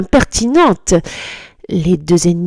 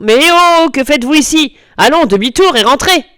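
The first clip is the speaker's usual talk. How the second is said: surprised scolding; 7 semitones higher, 4 dB louder than usual. A narrator's reading. O'Malley scolds kittens.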